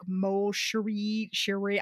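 slow, tentative try at "Mo Cherie"; unsure Gaelic pronunciation. Shown as a demonstration. Host trying a Scottish endearment, "Mo Cherie" pronounced slowly and unsurely. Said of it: "I don't know how to pronounce it".

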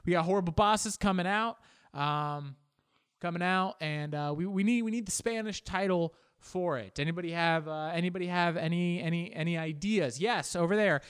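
lightly voiced boss running a meeting; rally the room like an eager boss; a boss asking staff for title ideas; mock marketing boss. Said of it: "imagine that marketing meeting".

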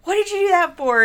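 a hammed-up outburst after the scream; mock shout. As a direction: act out a startled, annoyed husband. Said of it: "And he's like".

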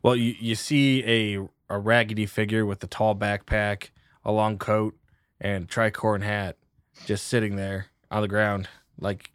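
low, measured scene setting; game master narration. Acted. Game master describing a waiting stranger to the players, scene-setting narration.

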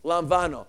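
"Lamvano" joined up with a V; "Lamvano" with the middle syllable stressed; Greek pronunciation. Shown as a demonstration. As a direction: say "Lamvano" as one word, lahm-VAH-no. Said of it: "But it's pronounced".

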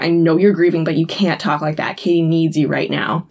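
low, earnest talking-to; serious. Retold or imitated. Lisa telling a grieving mother her child needs her, serious. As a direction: get gently serious with a grieving friend. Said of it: "get serious for a second".

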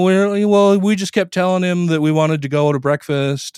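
lightly mocked hedging witness; cagey witnesses. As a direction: play the witness dodging the question on the stand. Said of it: "they were both like".

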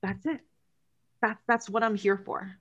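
talking with a dry mouth; parched, sticky-mouthed speech. Real, not acted. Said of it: "My mouth is so dry".

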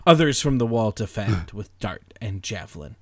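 dramatic poetry reading. Acted. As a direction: declaim the verse with relish.

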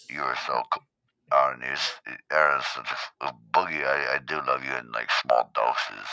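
low, soft, halting mumble; Caps impression. Caps backhandedly praising Aaron, low soft impression. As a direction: trail off from affection into insults. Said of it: "fake Caps".

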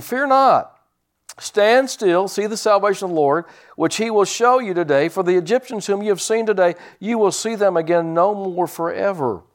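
high, ringing command; Moses commanding. Acted. Moses tells the people, high and commanding. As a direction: proclaim it like a prophet. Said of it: "And Moses said unto the people".

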